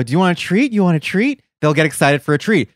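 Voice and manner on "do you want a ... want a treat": talking to a dog. Retold or imitated. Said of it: "you go".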